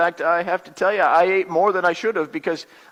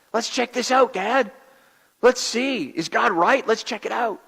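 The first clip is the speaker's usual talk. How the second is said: put-on excited kids; 2 semitones higher than usual. Excited kids urging Dad, voiced.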